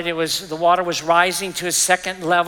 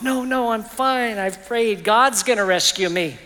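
stubborn refusal; 4 semitones higher than usual. Acted. Man waves off helicopter.

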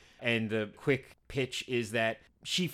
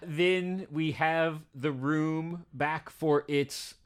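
slow, drawn-out cowboy grumble; a hint of a grumpy cowboy; angry cowboy; 3 semitones higher, slower than usual. Real, not acted. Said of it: "You sound like an angry cowboy".

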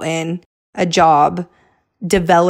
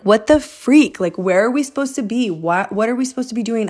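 higher-pitched exasperated questioning; frustrated; 5 semitones higher than usual. Retold or imitated. Wife after months of failed house offers, frustrated. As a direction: re-enact being at your wits' end. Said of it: "I was really frustrated".

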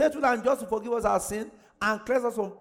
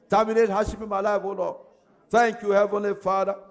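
loud, insistent prayer at full force; praying like you mean it; 3 dB louder than usual. Acted. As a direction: press it through with fervour. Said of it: "pray that prayer as if you mean it".

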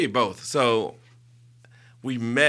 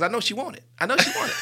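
laughing mock boast; much faster than usual. Mocking his own past boast.

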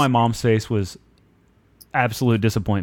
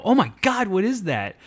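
retold shock; 6 semitones higher than usual. Kid finds metal in hand.

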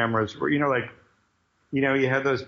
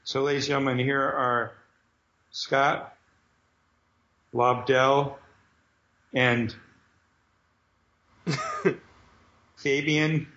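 raised, showy announcer voice; announcer introduction; 3 semitones higher than usual. Retold or imitated. Cyclops introducing the writers to the crowd, announcer style. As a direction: build up to "Knee Cheese" like a host. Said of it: "And Cyclops goes up and he goes".

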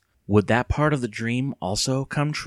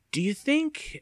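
started; slower than usual. A narrator's reading. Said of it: "Evan started".

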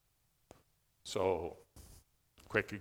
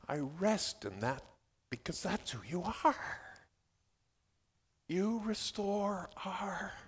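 rest in the words as you pray them; calm trusting prayer; 4 semitones higher, 4 dB quieter than usual. Shown as a demonstration. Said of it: "We need to learn to pray".

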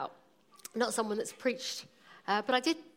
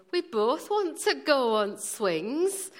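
put-on slow, drawn-out Leeds child's plea; pleading boys in a mock Leeds accent; 3 semitones higher, 4 dB louder, slower than usual. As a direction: imitate a small boy in broad Leeds. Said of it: "That was my Leeds accent".

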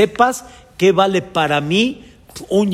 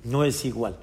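tearful lament; 4 semitones lower, 8 dB quieter than usual. Retold or imitated. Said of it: "llorando, diciendo".

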